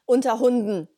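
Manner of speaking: "Unter Hunden" said firmly, with an audible exclamation mark; emphatic. Real, not acted. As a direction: punch "Unter Hunden" as a proviso.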